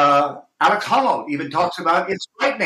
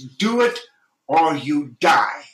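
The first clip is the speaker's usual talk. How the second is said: dramatic cry; much slower than usual. Real, not acted. Stressing do or die.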